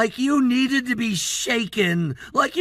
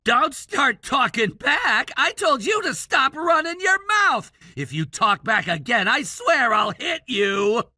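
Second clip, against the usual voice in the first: delinquent tough-guy act; 2 semitones lower than usual. Acted. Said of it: "trying to sound like some rebellious character".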